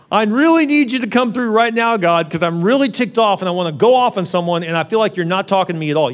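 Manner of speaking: pleading prayer. Retold or imitated. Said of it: "It's like".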